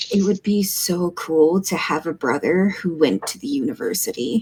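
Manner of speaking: soft whisper close to the ear. Narrating a game scene, voicing a sibling who whispers in your ear: whispering. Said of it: "basically whispers in your ear".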